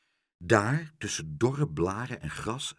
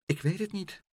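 sighing; 9 semitones higher, 4 dB quieter than usual. A narrator's reading. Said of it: "zuchtte Pluk".

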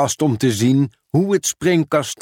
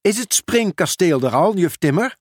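higher, eager storybook question; enthusiastic question; 7 semitones higher than usual. A narrator's reading. Julian asks the teacher about the bouncy castle, enthusiastically. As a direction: ask eagerly, lifting the pitch at the end. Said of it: "vroeg Julian enthousiast".

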